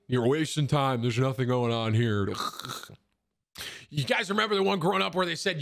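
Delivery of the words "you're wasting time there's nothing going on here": lightly voiced disapproving dad; imitated scolding parent. Parent dismissing kid's video games, mock scolding. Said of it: "But they're like".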